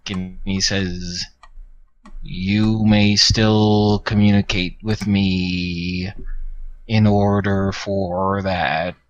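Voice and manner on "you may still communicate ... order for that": slow, measured villain's bargain; Tyrath speaking. Acted. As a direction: lay out the terms slowly, with weight. GM voices Tyrath's reply.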